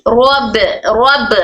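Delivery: very slow रब, रब, halting on each; stop on rab. Shown as a demonstration. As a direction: recite रब and stop dead. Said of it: "रब पे रोक दी".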